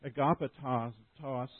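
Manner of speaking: "agapetos," said slowly and carefully, syllable by syllable; slow Greek word. Shown as a demonstration. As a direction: lay out "agapetos," slowly for the listeners. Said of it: "it's the word".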